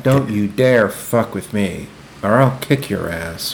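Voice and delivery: slow, low tough-guy threat; belligerent drunk. Pretend. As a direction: growl out a mock threat. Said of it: "I'm trying to be dominant".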